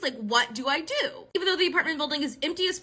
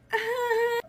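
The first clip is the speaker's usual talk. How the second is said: high, put-on nervous laugh; short acted laugh of disbelief; uneasy laugh; 9 semitones higher than usual. Acted reaction to creepy goodbye.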